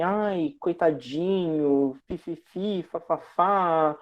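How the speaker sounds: a soft, slow little voice of hammed-up pity; mock pity voice. Shown as a demonstration. Mocking fake sympathy for a sad friend, soft and slow. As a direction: coo it like you pity a hurt friend. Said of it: "uma vozinha mais fininha".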